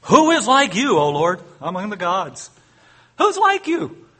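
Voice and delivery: high, loud proclamation; sing-out the praise with fervour; a touch of jubilant song reading; exultant reading. Acted.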